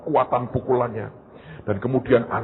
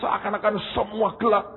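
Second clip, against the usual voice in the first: higher, dazed little voice; dizzy ball voice; 9 semitones higher than usual. Acted. Ball dazed after the hit, higher voice. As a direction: sound woozy and lost. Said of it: "dia berkata".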